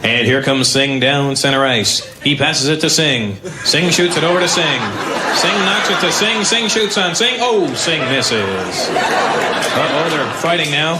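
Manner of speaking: lightly voiced play-by-play announcer calling the game; a hint of a hockey broadcaster, amused; mock hockey commentary. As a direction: parody a sports commentator calling the action, half-laughing. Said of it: "could you imagine the commentary for them".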